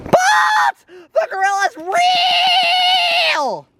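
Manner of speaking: crying out in protest; desperate cry. Acted. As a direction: plead that it's real. Carl insists gorilla is real.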